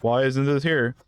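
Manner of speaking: slow imitation of whining customers; mock complaining. Player imitates customers finding something out of stock, mildly complaining. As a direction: put on a mild customer complaint. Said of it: "everyone's gonna start complaining".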